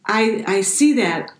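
psychic voice. Acted. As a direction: speak like a fortune teller seeing the future. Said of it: "You sounded like a psychic there".

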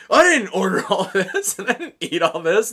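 loud, high, indignant protest; retold angry flip-out. Drunk diner left with the check, acted flip-out. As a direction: act out a drunk guy losing it. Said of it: "he flipped the fuck out".

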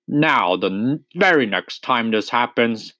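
lightly gruff, wary old badger; a hint of a grumpy badger at the door; gruff suspicious voice. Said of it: "said a gruff and suspicious voice".

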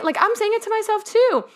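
real emotion catching in the throat; getting emotional. Real, not acted. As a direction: voice rising high as emotion breaks through. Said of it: "I'm getting a little emotional".

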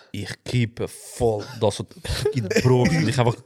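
usual speaking voice

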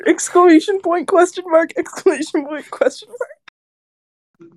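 slowing into a drawn-out question; dramatic reading. Pretend. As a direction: read the punctuation like a big reveal. Reading punctuation of text dramatically.

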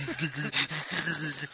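imitated sobbing. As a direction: mimic someone sobbing along helplessly. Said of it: "Sobbing through it".

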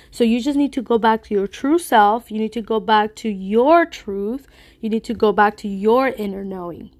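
speaking with a blocked nose; congested, stuffy voice. Real, not acted. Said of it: "I'm just really stuffy".

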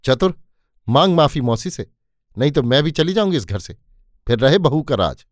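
mildly angry, rushing through the threat; a mother's understated fury, words tumbling fast; mother ordering her son to apologise, quick mild anger; trembling with anger. Acted. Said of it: "माँ गुस्से में कांपने लगी".

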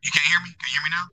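hollow, robotic bad-connection audio. Real, not acted. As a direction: sound like a glitchy robot mic. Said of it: "kinda like you a robot".

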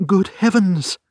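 high, loud exclamation of alarm; startled, frightened client; shocked cry. A narrator's reading. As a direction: cry out in sudden dismay. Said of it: "she cried".

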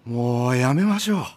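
urgent worried plea. Acted. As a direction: stop him firmly. Elder pleads to stop fight.

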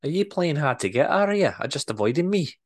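Scottish boss teases a shy worker; teasing Scottish accent. Acted. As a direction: needle him in a Scottish voice. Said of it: "better Scottish accent than I'm portraying".

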